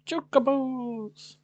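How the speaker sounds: high, slow, stretched-out delight; excited cry. Real, not acted. Sees chocobos, excited outburst.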